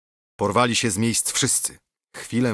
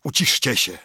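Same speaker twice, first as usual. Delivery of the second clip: calling for silence. A narrator's reading. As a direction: silence the room. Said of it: "zawołał trzykroć". (głośne wezwanie do ciszy)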